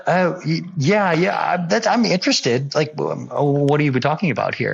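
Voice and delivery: high, quick eager yes, pitched well up. Retold or imitated. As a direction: jump at the offer like a kid. Eager reply to job offer.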